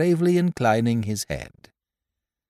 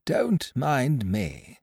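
very slow, soft and mild; 5 dB quieter, much slower than usual. Acted. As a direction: let it out gently and slowly. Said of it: "said the stranger mildly".

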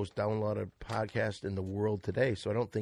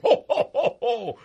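Santa laugh; 10 semitones higher, 8 dB louder than usual. Acted.

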